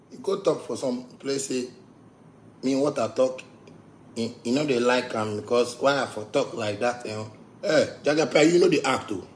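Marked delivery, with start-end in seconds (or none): 2.6-7.3 mock actress voice. Mocking an actress's excuse.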